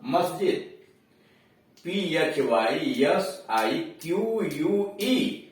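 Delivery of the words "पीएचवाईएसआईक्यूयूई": letters of पीएचवाईएसआईक्यूयूई one by one, slow; dictating the spelling; spelled out slowly. Shown as a demonstration. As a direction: spell it out carefully. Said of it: "क्यूयूई का मतलब क".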